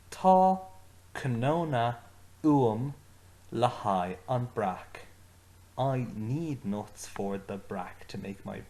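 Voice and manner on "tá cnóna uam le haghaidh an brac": each word said out slowly and clearly for learners to repeat; slow model phrase. Shown as a demonstration. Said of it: "I want you to say them with me".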